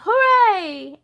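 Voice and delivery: high, loud happy "Hooray!"; cheer. Acted. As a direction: cheer it out with the whole gang. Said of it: "We all joined in and said".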